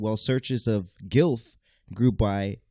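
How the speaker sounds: slow, winded delivery; struggling to catch breath. Real, not acted. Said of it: "I'm trying to catch my breath".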